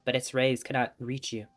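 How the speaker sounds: reading the game text aloud as a story; story narration. Acted. Streamer narrating the novel for viewers, storybook tone.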